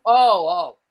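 high, startled "oh, oh"; a quick jolt of realization; sudden alarm. Retold or imitated. Realizing the cooler is popping.

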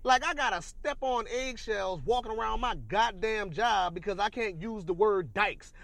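all worked up. Real, not acted. Ranting about word rules at the job, all worked up. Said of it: "See, I'm getting all worked up".

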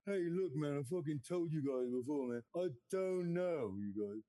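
mumbling rock star griping about the question; a lightly done rock singer, gruff and fed up; impression of a rock singer. Comic asks voice assistant about Uruguay, lightly done rock singer. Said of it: "a rock singer, uh, was the voice of your, uh, Alexa?".

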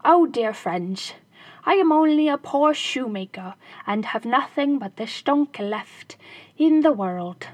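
crying out. Acted. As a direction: beg the robbers, hands wringing. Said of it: "he cried".

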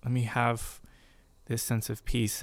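gentle voice of God. Retold or imitated. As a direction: hush it down, tender and unhurried. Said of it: "his voice just so gently".

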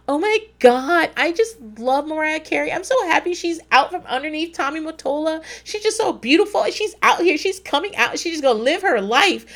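gushing naive roommate. Retold or imitated. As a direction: imitate a starry-eyed girl swooning over a pop diva. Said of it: "the little naive girl I was, uh, rooming with was like".

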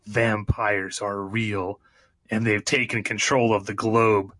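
dramatic movie trailer narration; booming trailer voice-over; announcer voice. Shown as a demonstration. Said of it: "Let me get my announcer voice".

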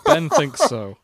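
high and loud through a laugh; giggling the line. Real, not acted. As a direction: blurt it out laughing. Laughing reading fic.

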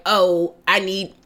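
hammed-up British impression; tragic British accent. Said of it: "Your British accent is tragic".

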